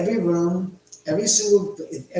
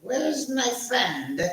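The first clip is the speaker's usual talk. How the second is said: slow, higher South African lilt on Where's; South African accent; 7 semitones higher, slower than usual. Pretend. Host calling for his friend in South African accent. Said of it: "accent from South Africa".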